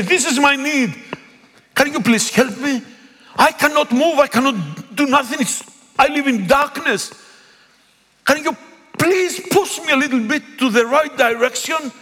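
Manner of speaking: high, earnest plea from someone helpless; pleading for help. Pretend. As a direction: ask for a push in the right direction, begging. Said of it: "I choose the way to say".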